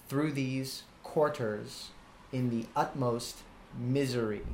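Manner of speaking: slow, separated phrases, stress first in "quarters", "utmost", "misery"; deliberate falling beat on "quarters" and "misery". Shown as a demonstration. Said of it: "Tearing is falling, stressed, then unstressed".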